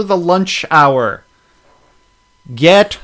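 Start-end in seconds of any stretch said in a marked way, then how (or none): 2.5-3.0 slow, loud mock exasperation; mock outrage. Host scolding a dumb criminal, slow loud mock outrage. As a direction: drag it out like a fed-up alien.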